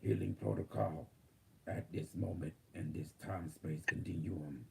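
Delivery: calm robotic system readout. Acted. Channels AI healing protocol.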